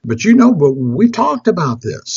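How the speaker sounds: patient, coaxing husband; gentle mock-patient reasoning; very loving. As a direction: reassure your wife, lightly acted. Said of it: "he very lovingly".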